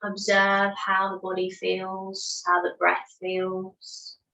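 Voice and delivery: measured breath count, each number set apart by pauses; unhurried, evenly paced meditation guidance; guided meditation. Real, not acted. Yoga teacher counts listeners through their breaths, guided meditation.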